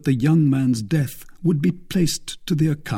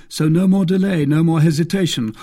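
raised, louder, impatient order; stern demand; 6 semitones higher, 5 dB louder than usual. A narrator's reading. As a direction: press a firm threat on your captive. D'Artagnan threatens the bandit.

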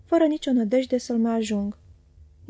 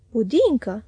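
a loud, astonished Budincă; the waiter, amazed, cries out that it is pudding; shouting in surprise; 5 dB louder, slower than usual. Acted. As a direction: call out the word as if amazed. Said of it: "a strigat el".

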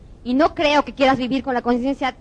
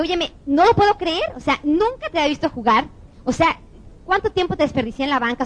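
amazed coach; 5 semitones higher than usual. Retold or imitated.

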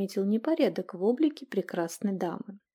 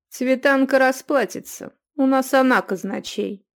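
louder brush-off; annoyed youth; 4 semitones higher, 6 dB louder than usual. A narrator's reading. Youth passing the bill to his companion. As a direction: dismiss her demand.

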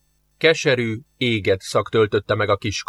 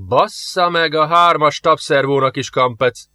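a strained, pained groan of a curse; 4 semitones higher than usual. Acted. Groaning, strained curse. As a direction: sergeant groans out the oath as the ship fails. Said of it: "nyögött fel Zsoff".

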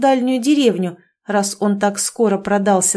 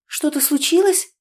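surprised; 7 semitones higher than usual. Acted. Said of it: "удивилась Ольга".

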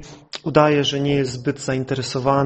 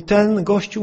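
higher-pitched retold grumble; exasperated neighbour; 4 semitones higher than usual. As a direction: imitate a neighbour starting a complaint. Retold neighbour complains about relative. (podniesiony ton narzekającego sąsiada)

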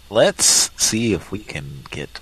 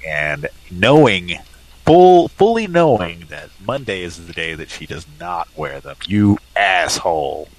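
slow, louder, pointed accusation; mock angry; 6 dB louder, slower than usual. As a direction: drag it out accusingly.

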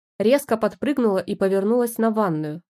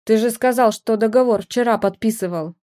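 nearly crying; 3 semitones higher, 5 dB louder than usual. Acted. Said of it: "Почти рыдая от обиды".

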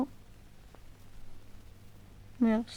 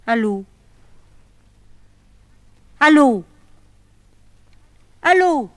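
each allô rising higher and louder into the dead line; anxious calling out; 5 semitones higher, 10 dB louder than usual. Acted. Woman calling her lost lover on the dead line, rising panic. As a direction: call out, growing frantic.

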